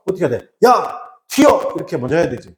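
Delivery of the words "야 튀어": high-pitched, drawn-out call to run; acted alarm, pitched well up; urgent warning call. Teacher acting out a sandstorm warning, urgent high call.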